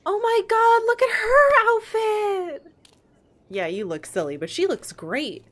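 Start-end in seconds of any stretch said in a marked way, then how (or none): 0.1-2.7 high delighted gushing; excited. Real, not acted. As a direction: squeal it with delight. Gushing over character outfit.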